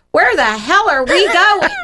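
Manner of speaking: mother retells daughter cursing in the car, lightly voiced child; little girl voice. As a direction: mimic a five-year-old swearing innocently. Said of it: "And she goes".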